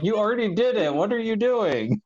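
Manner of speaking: mock exasperated Boimler. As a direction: throw up your hands at him, laughing. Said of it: "It's like".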